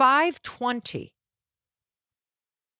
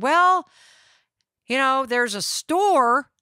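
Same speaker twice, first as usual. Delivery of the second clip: ranger lady voice; 4 semitones higher, 4 dB louder, slower than usual. Retold or imitated. Imitating the park ranger.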